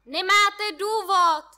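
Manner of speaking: loud, slow shout. A narrator's reading. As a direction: shout each word up to him. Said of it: "křičím ze všech sil".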